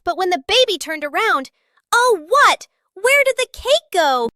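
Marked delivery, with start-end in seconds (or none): 1.9-4.3 higher, puzzled oh what; mock shock over the cake; surprised. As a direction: gasp at the missing cake. Baby finds cake missing.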